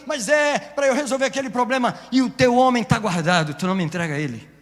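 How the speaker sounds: Holy Spirit pleading with the believer; voicing the Holy Spirit. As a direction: start gently, then build into a loud plea. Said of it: "o Espírito Santo".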